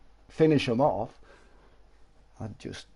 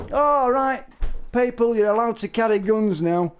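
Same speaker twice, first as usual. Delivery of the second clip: lightly voiced official calling out to people; mock announcement; 6 semitones higher than usual. Friend playing an official announcing new gun rules, mock announcer voice.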